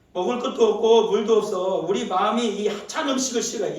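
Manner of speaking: whiny complaining people, hammed-up and loud; grumbling Israelites. Preacher voicing Israelites complaining to Moses, loud whiny grumble. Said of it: "왜 원망해요".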